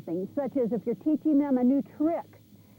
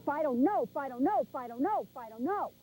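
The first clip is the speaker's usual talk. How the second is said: firm no fading. Shown as a demonstration. Trainer scolding a puppy chewing the couch, firm then fading. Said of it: "hit the couch and go".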